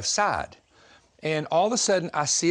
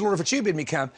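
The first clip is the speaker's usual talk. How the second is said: quicker, run-together quote; doubting request; faster than usual. Retold or imitated. Preacher quoting what Peter really said, quicker conditional plea. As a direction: say it straight through with the condition in.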